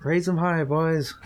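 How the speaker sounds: loud cheering toast; rousing toast. Acted. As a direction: raise the toast to the boys. Toast at the party.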